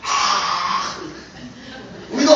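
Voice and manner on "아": half-voiced imitation of cheering fans; imitated crowd scream. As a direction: play the screaming audience on a drawn-out "aah". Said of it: "막 소리를 막 지르고".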